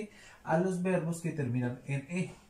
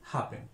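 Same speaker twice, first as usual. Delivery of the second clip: happen said alone, weight on HAP; stress on the first syllable; 4 dB quieter than usual. Shown as a demonstration. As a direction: let happen fall away after its stressed first syllable. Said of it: "haciendo el acento en la primera sílaba". (happen con acento en la primera sílaba)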